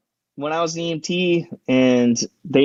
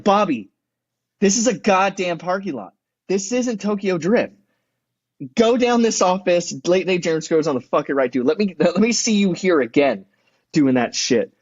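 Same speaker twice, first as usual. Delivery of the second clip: higher-pitched scolding, at normal volume; telling someone off; 4 semitones higher than usual. Retold or imitated. Security guard to reckless driver in parking lot, scolding. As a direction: give them a piece of your mind, mildly acted. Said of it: "giving a piece of your mind".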